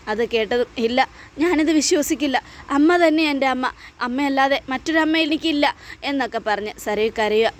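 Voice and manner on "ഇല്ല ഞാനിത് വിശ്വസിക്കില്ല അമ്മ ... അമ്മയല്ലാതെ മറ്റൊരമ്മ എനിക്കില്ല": higher, desperate refusal; cling to the mother, refusing to believe; distraught daughter denying. Acted. (സത്യം വിശ്വസിക്കാൻ കൂട്ടാക്കാത്ത മകളുടെ ഉയർന്ന നിലവിളി)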